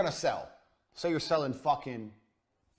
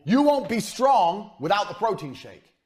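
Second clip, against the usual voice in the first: hard sales pitch; 4 semitones higher, 5 dB louder than usual. Retold or imitated. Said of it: "you need to say to people".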